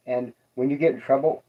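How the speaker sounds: talking around something in mouth; words past a bit in the mouth; mouth full. Real, not acted. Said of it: "sorry, I got something in my mouth".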